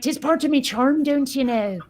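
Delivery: playful put-on Irish lilt; mock Irish brogue. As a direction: lay on a cartoon Irish brogue. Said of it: "There's too many Lucky Charms".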